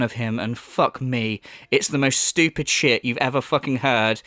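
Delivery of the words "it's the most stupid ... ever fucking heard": normal talking voice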